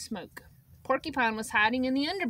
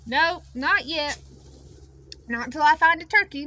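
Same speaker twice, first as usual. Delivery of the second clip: loud reply; 4 semitones higher, 7 dB louder than usual. Acted. Moose answering loudly.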